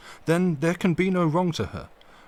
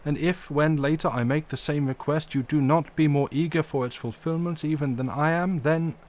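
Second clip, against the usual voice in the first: mildly stern, firm and deliberate; a touch of stern gravity in the old professor; grave and stern; 5 semitones higher, 3 dB louder than usual. Acted. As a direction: hold your ground with dignity. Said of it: "said gravely and sternly".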